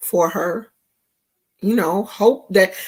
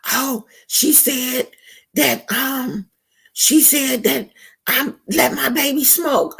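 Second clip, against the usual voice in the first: mock gossip quote. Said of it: "go back and be like".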